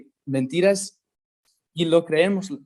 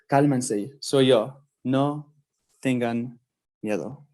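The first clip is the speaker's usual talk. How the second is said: gentle reassurance; 5 semitones lower, slower than usual. Acted. Jesus reassuring scared disciples.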